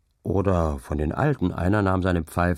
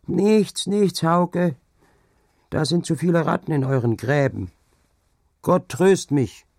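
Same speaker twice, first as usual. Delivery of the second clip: put-on high, plaintive old crone; high, loud, plaintive old woman's voice; old woman lament; 9 semitones higher, 4 dB louder than usual. A narrator's reading.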